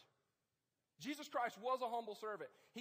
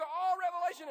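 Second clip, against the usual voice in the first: mock freak-out; 8 semitones higher, 10 dB louder than usual. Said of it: "some of you go".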